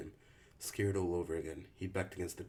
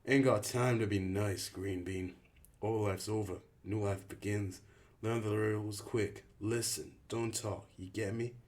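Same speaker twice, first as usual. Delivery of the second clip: louder, clipped orders from the leader; a hint of a hard camp leader; curt rule-giving; 3 semitones higher, 5 dB louder, slower than usual. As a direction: bark out the rules fast. Albie lays rules.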